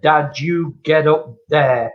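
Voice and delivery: mock stern son, slow and deliberate; retold telling-off. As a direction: imitate a son firmly ticking off his dad. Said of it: "he gave me a rollicking".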